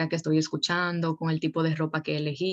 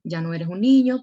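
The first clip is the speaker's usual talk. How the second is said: louder, pressing the point home; firm emphasis; 7 dB louder than usual. Acted. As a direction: set the limit clearly, a firm tone. Teacher addressing the teenager firmly. (con firmeza y más fuerte)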